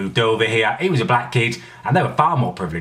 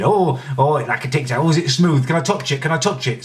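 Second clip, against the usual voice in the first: mock curious stranger; 5 semitones higher than usual. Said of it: "Loads of people wanted to touch my head".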